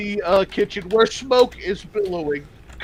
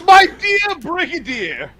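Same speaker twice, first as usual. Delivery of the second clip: smooth elf pimp; 8 semitones higher, 5 dB louder, slower than usual. Acted. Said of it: "the elf pimp ... goes".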